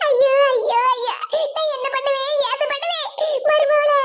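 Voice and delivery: hammed-up wailing; acted weepy cry of woe; tearful lament. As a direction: lament helplessly as if in tears. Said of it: "ஏன் இப்படி கண்ணீரை வடிச்சுக்கிட்டு நிக்கிய?".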